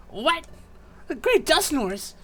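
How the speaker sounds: slow, high-pitched disbelief; astonished. Acted. Captive learning who the jailers serve, astonished. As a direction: draw it out in high surprise. Partner shocked at revelation.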